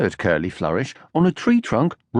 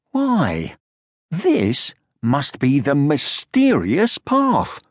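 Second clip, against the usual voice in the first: gasped; 3 semitones higher, much slower than usual. Acted. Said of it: "he gasped".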